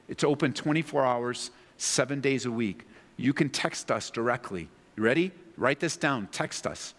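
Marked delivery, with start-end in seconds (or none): 6.3-6.9 whisper. Real, not acted. Urging viewers to text line.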